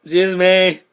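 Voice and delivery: huge loud burp through words. Shown as a demonstration. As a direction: belch it out as loud as possible. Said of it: "The biggest burp is coming".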